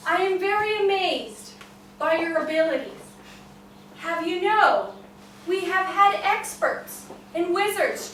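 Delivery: a grand king asking how; king's voice. Acted. King questioning the farmer, loud and stately.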